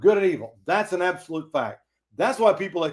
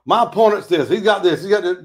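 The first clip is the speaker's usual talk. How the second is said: mock politician mudslinging; 2 semitones higher, 6 dB louder than usual. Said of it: "stop talking about".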